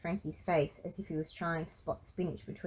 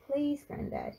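higher, frightened pleading; scared plea; 9 semitones higher, slower than usual. A narrator's reading. Scared Frankie begs granddad for answers, pleading. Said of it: "Frankie was properly scared now".

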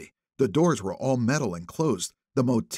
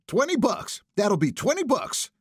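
put-on old woman; 11 semitones higher than usual. A narrator's reading. Old woman demands money.

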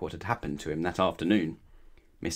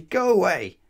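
loud, high cross shout; snapped; 10 semitones higher, 8 dB louder than usual. A narrator's reading. Mister Grumpy ordering Mister Happy away, snapping. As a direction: send them off with a grumpy snap. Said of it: "snapped Mister Grumpy".

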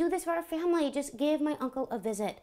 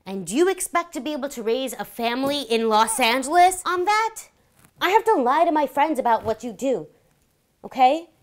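scolding; 6 dB louder than usual. Acted. Wife berating husband.

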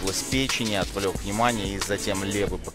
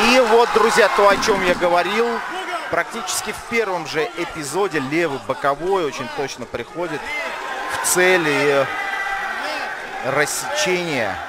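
excited commentary; 6 semitones higher than usual. Real, not acted. Commentator excited by knockdown punch.

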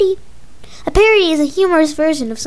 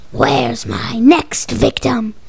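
low monster voice; 5 semitones lower, slower than usual. Pretend.

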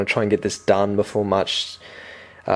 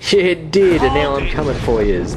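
higher mock-threatening taunt; raised-pitch gamer trash talk; playful taunt; 5 semitones higher than usual. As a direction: pounce on them with a gleeful threat. Taunts game enemies as he attacks.

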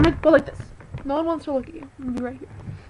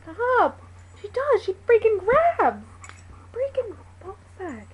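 higher, louder exasperated yelling; real yell; 8 semitones higher, 5 dB louder, slower than usual. Real, not acted. Owner yells at her clawing dog, real exasperation.

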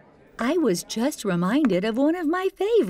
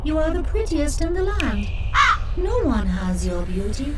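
magic mirror. Acted. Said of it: "The mirror always answered back".

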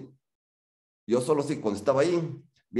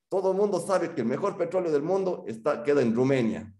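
bluffing lecturer; 7 semitones higher than usual. Pretend.

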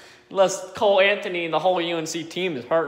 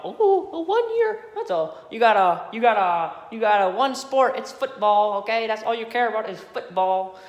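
mocking rival fans; 6 semitones higher than usual. Mimicking rival fans taunting him about football, mild mock voice. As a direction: sneer it like a taunting rival fan. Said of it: "Now I gotta hear this shit about".

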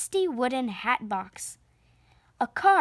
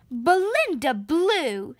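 slow, loud stern call of the name; teacher scolding a clumsy pupil; 4 semitones higher, 4 dB louder, slower than usual. Acted. Miss Briggs scolding Belinda in class, stern and loud. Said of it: "scolded Miss Briggs".

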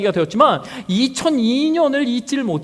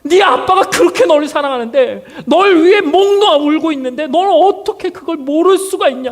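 frustrated shout; 4 semitones higher than usual. Pretend. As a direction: yell it at him, exasperated. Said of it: "저는 막 들려주고 싶어요". (어리석은 아들에게 답답해서 외치듯)

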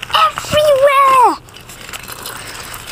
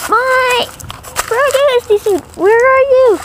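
calling out. Acted. Character calls out searching.

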